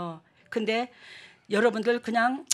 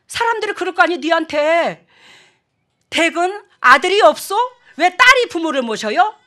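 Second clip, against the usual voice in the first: loud, higher retold rant; brother's angry retort; 4 semitones higher, 8 dB louder than usual. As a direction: act out the brother snapping back, loud and heated. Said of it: "그랬더니".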